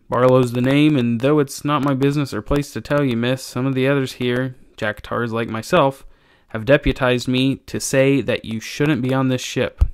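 lightly voiced humble old sailor; a hint of a deferential deckhand giving warning; cringing old sailor, warning. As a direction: lightly play an uneasy old tar.

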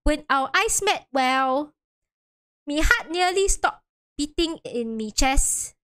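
hammed-up dramatic old witness; overacted witness. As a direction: overplay the shock of the moment. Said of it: "you're really overacting this".

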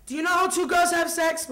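deadpan nosy grandma; serious grandmother. Acted. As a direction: ask it in all seriousness, like a grandmother. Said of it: "with all, like, a serious face".

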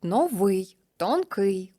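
новий whispered, stress on вий; whispered example. Shown as a demonstration. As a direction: breathe out новий, leaning on вий. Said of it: "закінчення «ий»". (пошепки, наголос на «вий»)

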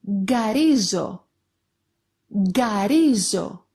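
"γκαρίζω" starting with a hard g as in go; "γκαρίζω" said as a word demo, g at the start; hard initial G. Shown as a demonstration. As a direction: model "γκαρίζω" carefully, γκ as plain g. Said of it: "sounds like G in the word go".

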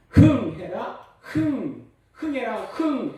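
loud, high nose-blowing chant; mother blowing child's nose. Retold or imitated. Mother to child blowing nose, loud rhythmic chant. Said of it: "이렇게 말씀하시다는".

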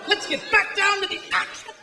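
lightly voiced British soccer commentator; mock British play-by-play announcer, riveted by nothing. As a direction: play the breathless TV commentator over a dull match.

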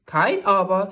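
ein kurzes, lautes, trotziges „Kein Aber“; bockig. Acted. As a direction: stur abblocken wie ein beleidigter Spiegel. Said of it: "sagte der Spiegel bockend". (bockig und laut)

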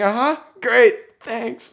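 very high, strained mock cheer; fake-fine squeak. Limping man assuring a friend he's fine, fake-cheerful squeak. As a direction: burst out high and loud, then shrink on thanks.

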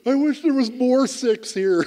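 sudden high blurt. Retold or imitated. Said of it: "I just blurted out".

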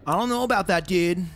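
California surfer dude accent. Shown as a demonstration. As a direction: do a laid-back California surfer. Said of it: "Just surfer voice".

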